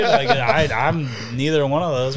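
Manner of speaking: can't hold back a laugh while talking. Real, not acted. Amused storyteller to friends, laughing.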